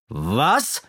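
sharp indignant yelp; angry outburst. Acted. The constable thinks Kasperl mocks him, indignant. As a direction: snap the word out furiously. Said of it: "schrie er".

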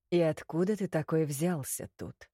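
low, surprised male voice; a handsome man, gently surprised. Acted. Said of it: "Низкий мужской голос, красивый, удивлённый".

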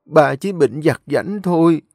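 put-on an old lady calmly settling her affairs before death; frail grandmother. Grandmother comforts the children.

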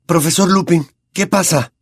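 Harry cuts in high and loud, alarmed; loud interruption. A narrator's reading. Harry interrupts his teacher, loud and alarmed. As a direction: call out to stop the professor. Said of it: "interrumpió Harry en voz alta".

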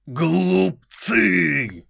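high loud devilish roar; demonic layered voice. Acted. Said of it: "дьявольский голос Боуманда".

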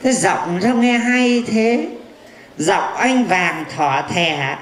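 low, slow crooning flirt. Acted. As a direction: woo her slowly in a low smooth voice. Fortune teller flirting slowly. (tán tỉnh chậm rãi, giọng trầm)

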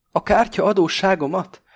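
high, loud furious question; beside himself with rage; fuming outrage. A narrator's reading. Pakó fumes at Krestopulosz, high and loud. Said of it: "tajtékzik Pakó egészen magán kívül".

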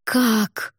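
surprised exclamation; exclaimed. Acted. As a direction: burst out in disbelief. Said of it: "воскликнула я".

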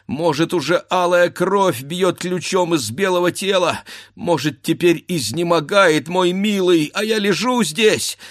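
wife imagining her husband bleeding; anguished fear. Acted. Wife frantic during sabre fight.

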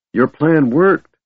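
breathless pride at a plan gone right; a panting kender praising his friend; proud gasp. A narrator's reading. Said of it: "Tass gasped proudly".

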